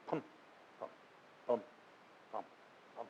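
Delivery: thump it out like a heartbeat; mouthing a steady heartbeat rhythm; imitated heartbeat. Shown as a demonstration. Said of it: "You ever hear an amplified heartbeat?".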